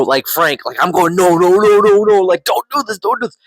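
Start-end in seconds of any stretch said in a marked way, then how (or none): 1.1-3.4 high, loud desperate no's rising into a plea; screaming at the TV. Retold or imitated. Fan reliving the death scene, shouting high no's at the TV. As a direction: plead with the screen, voice climbing. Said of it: "I'm screaming at the T V".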